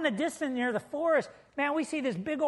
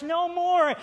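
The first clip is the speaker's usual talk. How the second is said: emphatic refrain; 6 semitones higher, 5 dB louder than usual. Shown as a demonstration.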